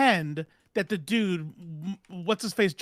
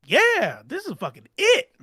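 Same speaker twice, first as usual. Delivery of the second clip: retold excitement. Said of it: "and I'm thinking".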